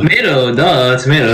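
"tomato" said "to-MAY-to", matter-of-fact. Shown as a demonstration. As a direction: insist on "tomato" with an AY middle. Insisting on own pronunciation.

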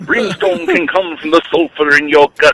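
hint of a radio preacher; lightly voiced preacher sermon; Reverend Wolfman. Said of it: "This is the Reverend Wolf Man".

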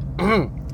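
short throat clear; quick demonstrative throat clear; dad-style throat clearing. Shown as a demonstration. Podcaster showing which dad sound to avoid, brief throat clearing. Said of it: "sons de pai".

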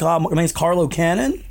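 put-on American accent on the name; exaggerated American R in Carlo. Shown as a demonstration. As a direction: introduce yourself like an American. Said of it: "say it in my American accent".

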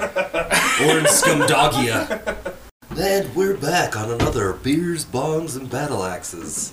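slow, measured radio host voice; lightly voiced public radio announcer; nerd voice. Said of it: "that's my nerd voice".

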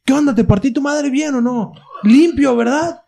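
a hint of a cocky old man. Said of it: "se escuchaba una voz de viejo".

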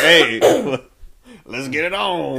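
mock seductive line; hammed-up pickup line; smooth come-on. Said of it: "You just be like".

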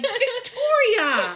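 loud high scolding call of a name; shaming scold. Retold or imitated. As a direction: call her name out like scolding a naughty dog. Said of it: "That's how they sounded".

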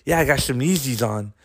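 imitating a back-of-mouth lisp; lisp imitation. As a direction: lightly lisp like the kid. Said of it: "he talked like this".

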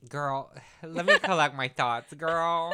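loud, high, flustered with a sigh; overwhelmed, breaking into a laugh; getting emotional. Real, not acted. Asking friend for a moment, emotional. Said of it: "I'm getting emotional".

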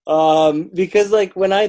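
laughing high and loud through the words; can't stop laughing while answering. Real, not acted. Guest laughing at the host's question, answering through laughter.

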